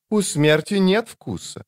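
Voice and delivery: light high female voice; a woman, cool and dry; woman's voice. A narrator's reading.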